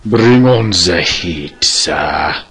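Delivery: put-on slow, drawn-out character accent. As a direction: draw out each word in an odd accent. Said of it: "I just like speaking in my voices".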